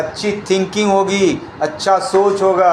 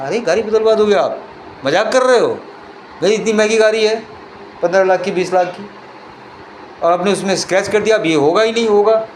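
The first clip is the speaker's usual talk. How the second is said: scornful disbelief; 4 semitones higher than usual. Acted. Car owner scoffs at the stranger offering a new car, indignant. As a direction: sneer at the offer as a joke.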